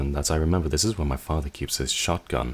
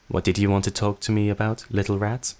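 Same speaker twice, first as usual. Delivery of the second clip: higher, mocking sister's voice; taunting sister; 4 semitones higher than usual. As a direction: toy with the little rat.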